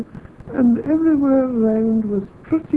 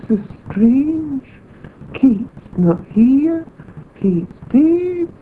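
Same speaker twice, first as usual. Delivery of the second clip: surprised; 3 semitones higher, much slower than usual. Retold or imitated. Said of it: "I was so surprised".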